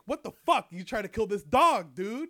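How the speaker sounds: loud and high, shouting at him in disbelief; outraged shout. Retold or imitated. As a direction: yell it like you can't believe what you heard. Guy yells at would-be dog killer.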